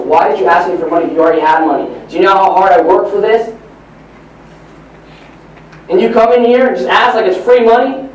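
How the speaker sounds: acted dad scolding his son; furious father. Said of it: "The dad gets furious again".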